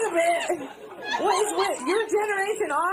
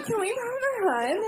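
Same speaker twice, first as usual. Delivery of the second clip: higher, mock breathy trail; imitating breathy ending; 7 semitones higher than usual. Host mocking the guest's breathy ending, higher. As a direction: tack a breathy ah on the end. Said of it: "you're doing a thing where you're going".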